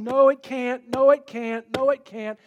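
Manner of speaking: loud, firm repeated no; a preacher voicing God's word, booming a refusal; emphatic refusal. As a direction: insist on each no, hammering it home. God's word answering the excuse.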